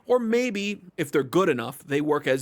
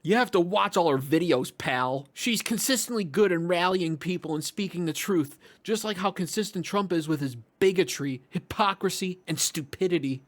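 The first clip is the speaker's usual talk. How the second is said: a touch higher, lightly sneering read; lightly lampoon the smug commenter; mocking commenter voice; 4 semitones higher than usual. Reading another comment to his viewers, lightly mocking voice. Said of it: "Or how about this one?".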